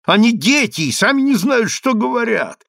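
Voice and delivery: high-pitched feigned innocence; hypocritical. A narrator's reading. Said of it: "отвечала лицемерным тоном преступница".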